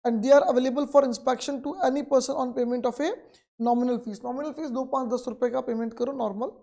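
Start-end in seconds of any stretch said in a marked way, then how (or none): 0.1-4.2 reads the textbook line out very slowly, word by word; slow dictation. Acted. Teacher dictating the textbook definition to students, very slow. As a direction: dictate it so students can write.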